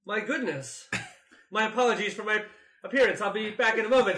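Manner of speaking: haughty lady voice. Acted. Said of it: "why does Hawk sound like Helen Mirren".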